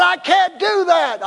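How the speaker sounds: high, drawn-out objection; acted protest. Caller refusing the pastor's advice, high mock protest. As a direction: imitate an exasperated refusal, slow and high.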